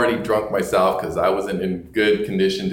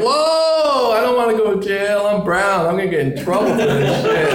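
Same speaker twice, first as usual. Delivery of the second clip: high-pitched comic pleading; hammed-up fear of getting arrested; retold panic; 10 semitones higher, 3 dB louder than usual. Retold fear of going to jail.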